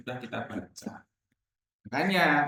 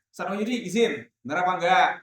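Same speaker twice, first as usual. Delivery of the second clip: blunt request; 3 dB louder, faster than usual. Shown as a demonstration.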